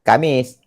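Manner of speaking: Kamis with plain k; Kamis, flat k; wrong Kamis. Shown as a demonstration. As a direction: show the mistaken Kamis.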